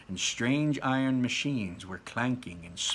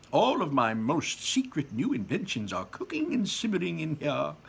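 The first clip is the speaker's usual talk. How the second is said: Wonka voice; 5 semitones higher than usual. Acted. Wonka voiced in read-aloud.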